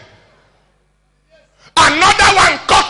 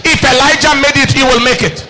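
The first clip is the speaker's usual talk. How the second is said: prophesying. Shown as a demonstration. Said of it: "speak to them like prophesying".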